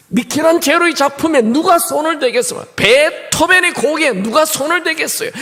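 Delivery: fervent revival sermon; preaching at full force. Acted. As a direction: build to a rousing climax. Preaching climax.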